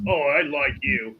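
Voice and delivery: toned-down, slow amusement; understated chuckling approval. Acted. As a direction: say it slowly at an easy volume, lightly amused. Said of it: "as he's chuckling".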